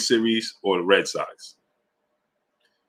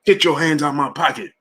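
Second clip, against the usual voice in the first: a hint of a jumpy New Yorker, higher; lightly voiced startled New Yorker; wary New Yorker; 7 semitones higher than usual. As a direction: snap back at a stranger like he's a pickpocket. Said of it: "You be like".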